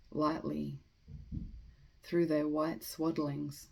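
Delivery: measured, deliberate poem recitation with pauses between phrases; poetry reading. Acted. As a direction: read the poem aloud, letting each line settle. Reads a poem aloud.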